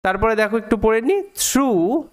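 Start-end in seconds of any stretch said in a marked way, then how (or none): 1.2-2.0 "through" drawn out on a long oo; pronunciation demo. Shown as a demonstration. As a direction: say "through" slowly, holding the final vowel. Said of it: "এইটার উচ্চারণটা through এরকমভাবে হবে".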